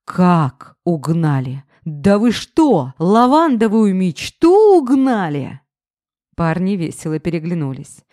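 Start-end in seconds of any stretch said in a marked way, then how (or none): 0.1-5.6 slow, drawn-out dismay; stunned he can't believe his car is gone; a man wailing over his stolen car; shocked disbelief. A narrator's reading. Drunk ex learns car stolen.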